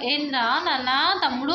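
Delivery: gentle tone. Shown as a demonstration. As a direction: model the gentle way to answer. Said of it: "అనాలి". (మెల్లగా, ప్రేమగా)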